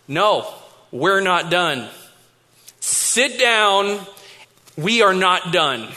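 slow, deliberate firm order; serious dad. Retold or imitated. Dad insists son return to the table, stern. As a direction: imitate a father putting his foot down, measured pauses. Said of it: "Dad looks at me seriously".

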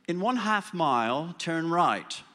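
slow, measured mock sat-nav voice with a hint of English accent; a touch of English accent announcing the turn; English GPS voice. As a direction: lightly imitate an English navigation voice. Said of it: "that nice English accent".

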